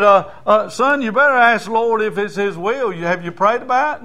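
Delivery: put-on loud, high warning to the boy; counseling preacher. Preacher warning the boy in a loud, high voice. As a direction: caution him to seek the Lord's will.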